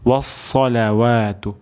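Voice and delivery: ওয়াসসালাওয়াতু with heavy, full s; correct sad. Shown as a demonstration. Teacher repeats for learners, careful heavy sad. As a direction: recite ওয়াসসালাওয়াতু with thick sad, long vowels. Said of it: "সদ উচ্চারণ করতে হবে".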